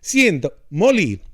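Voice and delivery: mock obscured uncle voice; uncle impression, hand over mouth. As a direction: imitate an uncle mumbling through his fingers. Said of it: "'cause he talks like this with his hand in his mouth".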